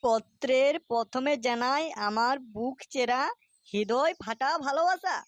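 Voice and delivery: slow, drawn-out reading of a love letter; reading aloud slowly. Acted. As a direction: read it out word by word. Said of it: "তুই একটু জোরে জোরে পড়ে শোনা তো". (ধীরে ধীরে চিঠি পড়া)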